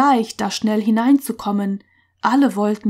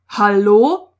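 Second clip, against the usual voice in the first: loud questioning call; sudden, loud hail; 6 dB louder than usual. A narrator's reading. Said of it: "rief er".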